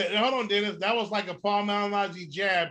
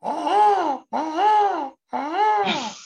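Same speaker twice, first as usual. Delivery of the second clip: mocking uh-huh; 9 semitones higher, 4 dB louder, much slower than usual. Real, not acted. Teasing reaction to a pick.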